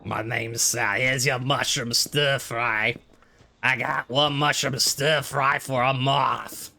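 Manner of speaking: slow gravelly cook voice, pushed from the throat; a worn-out diner cook taking orders; Sal the diner cook. Acted. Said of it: "my voice hurts from going".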